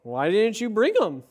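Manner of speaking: low, measured Bible reading; scripture reading. Acted. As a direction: read the passage aloud, low and deliberate. Reads scripture aloud.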